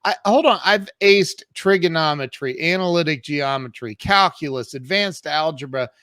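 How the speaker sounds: arguing back, affronted and loud; indignant protest. Retold or imitated. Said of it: "And I said".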